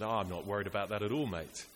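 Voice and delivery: put-on lightly done, quick New Zealand accent; a friendly ski instructor's easygoing New Zealand twang, a touch fast; mild imitation of a New Zealand accent. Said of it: "forgive me if the accent doesn't quite work".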